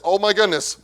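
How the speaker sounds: scared disciple begging God for power; nervous disciples. Retold or imitated. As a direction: fret out loud, then plead with God at the top. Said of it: "saying something like this".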